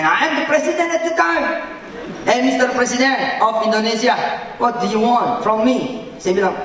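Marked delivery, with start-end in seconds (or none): 2.3-6.0 voicing the king. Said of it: "the King of Saudi, ask me".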